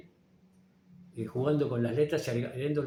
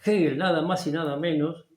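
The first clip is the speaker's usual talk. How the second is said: louder, insistent lecturing; raised voice to stress the point; emphatic raised voice; 3 semitones higher, 8 dB louder than usual. Real, not acted. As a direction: lean hard on Hegel's name.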